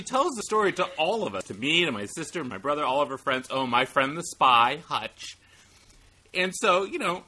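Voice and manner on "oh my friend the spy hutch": lightly voiced mom, stretched out and halting; slow it down like a halting storyteller; a hint of mom's halting voice; halting mom imitation. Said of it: "I'm doing an imitation of my mom's voice".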